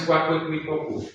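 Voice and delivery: qua, cue, qui, quo with U sounded; Italian-style QU. Shown as a demonstration. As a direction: say qua, qui as "kwa, kwi". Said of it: "en italiano es qua".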